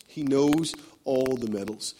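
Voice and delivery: each word laid down slowly; slow it right down and weigh it. Shown as a demonstration. Preacher repeating the line slowly for the congregation.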